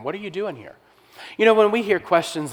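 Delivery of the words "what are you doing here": spirit voice. Retold or imitated. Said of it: "speaks to him in a spirit man".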